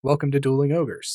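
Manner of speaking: put-on show host welcome; demonstrating a projected host voice; projected presenter voice. Shown as a demonstration. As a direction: welcome the audience like an announcer. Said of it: "I could talk like this".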